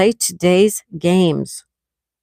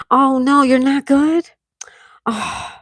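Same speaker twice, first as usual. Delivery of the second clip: whispered, higher, concerned "you're not good"; worried whisper; 6 semitones higher, slower than usual. Real, not acted. To her viewer Marlon, who is not doing well, concerned whisper.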